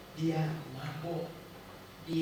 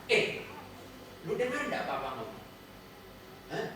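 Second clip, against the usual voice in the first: put-on snapping at child. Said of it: "Kita bentak sedikit".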